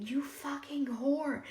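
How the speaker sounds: slow, high-pitched angry retelling; retold scream. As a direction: imitate an angry scream at moderate volume. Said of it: "he calls screaming, screaming".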